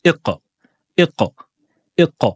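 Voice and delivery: touch and let go on the q of iqa; qalqala bounce. Shown as a demonstration. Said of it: "on touche en point de prononciation et on relâche aussitôt".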